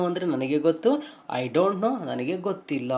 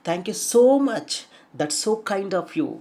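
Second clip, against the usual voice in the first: higher, slow, emphatic acted gratitude; effusive thanks; 4 semitones higher, 3 dB louder, much slower than usual. Thanking someone who has helped you, effusive. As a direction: lean gratefully on "so".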